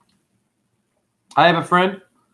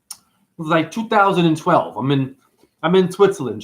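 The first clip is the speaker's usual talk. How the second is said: put-on playful touch of a Jersey accent; light mock Jersey accent. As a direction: slip lightly into New Jersey talk. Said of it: "why are you doing a Jersey accent?".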